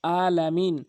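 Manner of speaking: আলামিন with a plain vowel onset; আলামিন starting on a simple hamza; common mispronunciation. Shown as a demonstration. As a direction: say আলামিন without the throat ain. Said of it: "আলামিন ভুল হচ্ছে".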